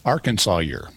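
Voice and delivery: Arkansawyer, with a saw in 'Arkansas year'; older demonym. Shown as a demonstration. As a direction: say 'Arkansas year' as one word, AR-kan-saw-yer. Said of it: "there is an alternative word".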